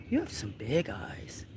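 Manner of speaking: soft whisper to kitten. Real, not acted. Owner whispering to the kitten in her arms, soft whisper. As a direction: whisper it softly.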